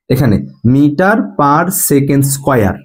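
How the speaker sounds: "মিটার পার সেকেন্ড" read out slowly, each word apart; slow, careful teacher demo; slow unit reading. Shown as a demonstration. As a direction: model how the unit is read aloud. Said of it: "সেকেন্ডটাকে পরে উচ্চারণ করবা".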